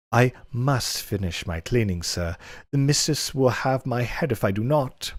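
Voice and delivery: hammy, high coy servant voice; coy maid voice. Acted. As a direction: play the bashful Argonian maid, hammed up. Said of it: "inappropriate voice I can muster".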